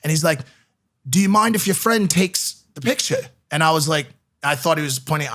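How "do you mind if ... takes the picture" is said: half-successful imitation of an Irish fan; bad Irish accent. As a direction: put on a poor Irish accent. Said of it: "I'm trying to do Irish".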